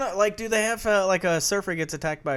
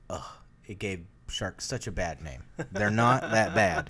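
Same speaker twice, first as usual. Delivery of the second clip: low, soft whiny defender; mock an earnest shark fan; lower softer mock enthusiast; 9 semitones lower, 4 dB quieter than usual. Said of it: "shark enthusiasts are like".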